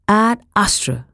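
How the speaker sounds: shouting. Acted. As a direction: shout the password at the door. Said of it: "I shouted".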